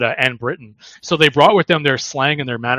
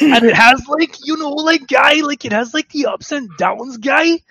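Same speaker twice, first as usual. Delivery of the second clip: much higher sing-song mock East Indian accent; 11 semitones higher than usual. Podcaster mocking Indo-Canadian youth speech, in a high sing-song mock East Indian accent. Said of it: "pseudo-black East Indian accent".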